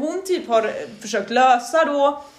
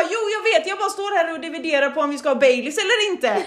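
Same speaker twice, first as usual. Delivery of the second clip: higher, laughing through it; laughing embarrassed reply; 6 semitones higher than usual. Retold or imitated. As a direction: giggle out the excuse. Generad replik med skratt. (fnissande, högre ursäkt)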